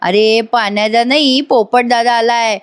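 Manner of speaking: slow, sing-song teasing of a friend; mock teasing. Friend teasing Panya about being a fool, slow mock taunt. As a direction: drag it out to mock him. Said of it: "चिडवत असतो".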